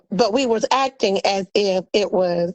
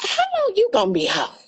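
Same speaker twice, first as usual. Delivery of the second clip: quoting Teresa; 8 semitones higher, faster than usual. Retold or imitated. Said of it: "talking about".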